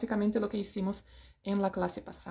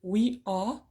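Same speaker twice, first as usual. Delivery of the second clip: we are with a British a sound; British English. Shown as a demonstration. Teacher models the British pronunciation. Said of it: "En el inglés británico voy a escuchar".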